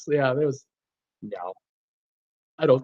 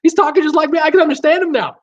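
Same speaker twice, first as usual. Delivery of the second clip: Texan friend; 12 semitones higher, 5 dB louder than usual. Retold or imitated. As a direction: gush like a thrilled Texan coworker. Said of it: "And he's going".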